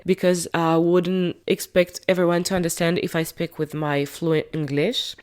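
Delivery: playful English accent, fully put on. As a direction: show off a hammed-up English accent. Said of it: "J'ai pris mon meilleur accent anglais".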